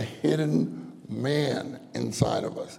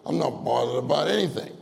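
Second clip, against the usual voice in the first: mock false cheer. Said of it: "you can't say".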